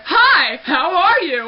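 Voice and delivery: loud, high chirpy greeting; squeaky-high, full-volume hello; super high voice. Shown as a demonstration. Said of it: "super high".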